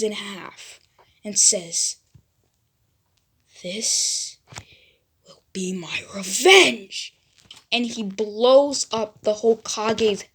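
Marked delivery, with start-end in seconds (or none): 3.6-7.2 whispered threat; menacing whisper. Acted. Naruto threatens the Hokage, menacing whisper.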